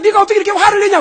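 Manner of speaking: loud, high booming question; God demanding why Jonah is angry, booming loud; God's booming rebuke. Retold or imitated. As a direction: thunder it down as God would. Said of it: "그럼".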